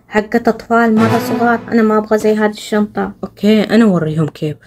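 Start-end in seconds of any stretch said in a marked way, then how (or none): 3.2-4.6 scheming aside. Acted.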